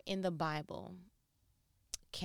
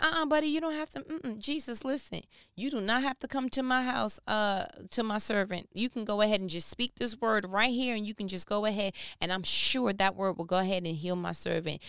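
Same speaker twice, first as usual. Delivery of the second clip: excited soldier; 3 semitones higher, 3 dB louder than usual. Retold or imitated. Imitating the soldier.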